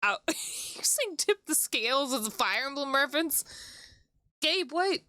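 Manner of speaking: normal talking voice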